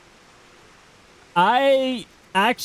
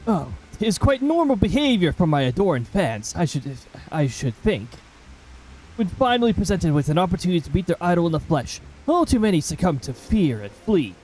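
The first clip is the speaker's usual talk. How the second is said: lightly voiced refined English gentleman; a hint of a tired, proper gent asking for tea; mildly put-on posh gentleman, weary. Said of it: "It's more voice acting time".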